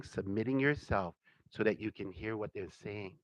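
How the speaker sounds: ordinary talk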